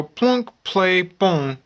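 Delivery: high, punchy sound-effect words; playful phone sound effects; imitated button sounds. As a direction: punch each word like pressing a button, pitch stepping down. Acts out starting a video.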